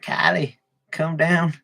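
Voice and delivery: lightly put-on voice for a celebrity mom; mock mom voice. Mom calling Kylie to come downstairs, lightly mocked voice. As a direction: imitate a mother calling her daughter. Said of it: "That's how they do their voice".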